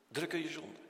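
preacher repeats the question to the listeners, hushed. Acted. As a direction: drop the voice and press the question gently.

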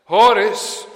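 Paulus calling. Retold or imitated. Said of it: "dan zegt Paulus".

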